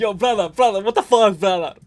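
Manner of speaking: angry voice with put-on Dagestani accent. Retelling how Khabib reacted to a cameraman, imitating Khabib getting mad. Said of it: "Khabib's like".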